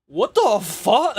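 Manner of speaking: retelling his stunned reaction, slow and high; drawn-out shocked what. Retold or imitated. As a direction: stretch it out in shock.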